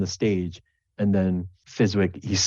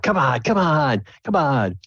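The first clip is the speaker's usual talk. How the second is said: urging the crowd; 7 semitones higher, 4 dB louder than usual. Acted.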